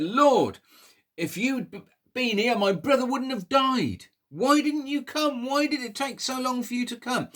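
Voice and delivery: high, loud, accusing wail; angry. Acted. Mary confronting Jesus over her dead brother, angry and high. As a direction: demand answers of him, hurt and furious. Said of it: "She was very angry".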